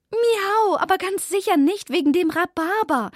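high, loud, indignant protest; upset meow. A narrator's reading. Zelda snaps at Vivaldi's rhubarb theory, high and loud. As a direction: flare up at the silly excuse. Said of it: "miaute Zelda aufgebracht".

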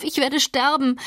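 high anguished cry; desperate cry. A narrator's reading. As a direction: cry out that you will die. Catherine's dying cry.

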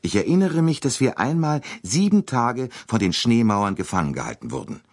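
a fussy sleeping-car attendant; lightly voiced train conductor; conductor's voice. A narrator's reading.

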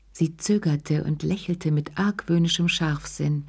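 usual speaking voice

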